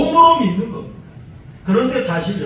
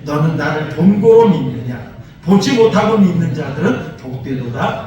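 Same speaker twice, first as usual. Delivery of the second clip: loud, steady reading aloud with the congregation; scripture reading; 5 semitones lower, 5 dB louder than usual. Shown as a demonstration. Preacher leading the congregation in reading verse twenty-nine. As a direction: read the verse out together. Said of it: "우리 함께 봅시다".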